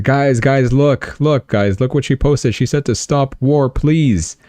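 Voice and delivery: high, eager mock soldier calling his buddies; excited soldiers.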